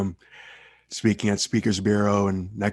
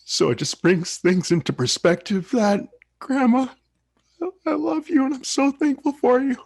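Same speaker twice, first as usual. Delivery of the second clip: real emotion pushing the voice much higher; choked-up tribute, the voice cracking high; voice breaking. Real, not acted. Thanking his late grandma, voice breaking with real emotion.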